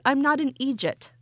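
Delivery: "idiot" said as Irish EE-jit; mock Irish eejit. Host quoting the Irish nephew's defence, mock Irish pronunciation. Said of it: "That's my favorite new word".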